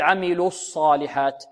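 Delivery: عملوا الصالحات with lips kept rounded into the ص; wrongly rounded sad. Shown as a demonstration. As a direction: show the faulty الصالحات, rounding carried over from the lam. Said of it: "لا نقول".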